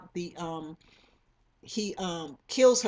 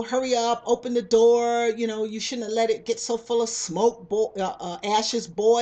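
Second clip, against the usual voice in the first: mock hollering; 3 semitones higher, 4 dB louder than usual. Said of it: "they're screaming and hollering".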